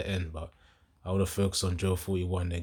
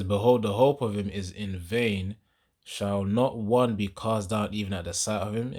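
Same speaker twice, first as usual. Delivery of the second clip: firm, louder verse reading; scripture reading; 4 dB louder than usual. Acted. Preacher returns to verse nine, emphatic scripture reading. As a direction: proclaim the verse in measured phrases.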